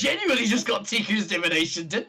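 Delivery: high, loud thrilled disbelief; excited. Real, not acted. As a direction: gush with amazement. Excited realisation.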